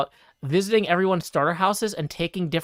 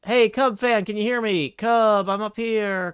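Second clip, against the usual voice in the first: calling down a hallway; 4 semitones higher, 4 dB louder than usual. Real, not acted. Calling out to distant friend.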